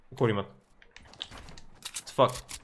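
slow, breathy whispered curse; hushed whisper. Real, not acted. Player hiding from a nearby enemy, whispering. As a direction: whisper so the enemy can't hear.

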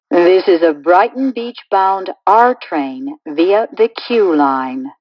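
recorded subway announcement stitched from clips; choppy prerecorded train announcement with pasted-in station names; spliced together words. Acted.

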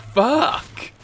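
high squeaky yelp of a shot player; mock the enemy's startled cry; imitating victim's yell. Shot player mimicked with a high yelp. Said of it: "you hear his reaction like".

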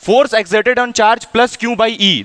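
very slow, word by word, as if dictating; slow read-aloud. Shown as a demonstration. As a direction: read each word out slowly for the class. Teacher reads textbook line aloud. (धीरे-धीरे, शब्द-शब्द पढ़ना)

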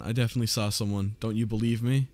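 fast, half-joking insistence; mock insistent. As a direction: rattle it off like a pushy claim.

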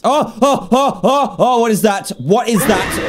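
startled, rising panic; frightened yelps at something creepy; scared. Real, not acted. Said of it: "I was a little bit scared then".

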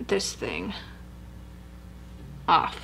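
wet mask on lips; peeling off face mask; through a sheet mask. Real, not acted. Seen 2: Sheet mask covers face throughout; she peels it off from forehead.

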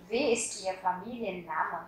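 Wie ist Ihr Familienname said slowly, word by word; slow model repeat. Shown as a demonstration. Teacher repeating the question slowly for students. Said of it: "các bạn sẽ hỏi là".

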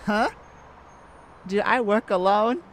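loud mocking laugh; scoffing laugh. Thief scoffing at the cop's question, laughing. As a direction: laugh off the very idea.

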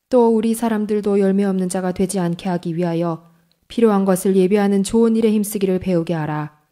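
ordinary talk, nothing marked

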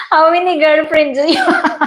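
teasing giggly repeat; laughing repeat. Shown as a demonstration. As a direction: push the question through a laugh. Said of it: "repeats the question".

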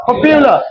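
পপুলার said with a "pyu" glide, pop-YU-la; pronunciation of পপুলার. Shown as a demonstration. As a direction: put a clear y-sound into পপুলার: "po-pyu-la". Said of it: "উচ্চারণটা কি বলতো?".

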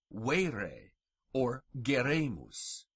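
vere and geremus with long "ay"; vere, geremus with a held ay sound; long E words. Shown as a demonstration. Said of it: "long E is pronounced like our long A".

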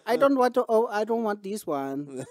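fussy customer in a mock Asian accent, breaking into laughs. Customer refusing the opened box, laughing mock accent. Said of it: "I did, and I don't give a fuck".

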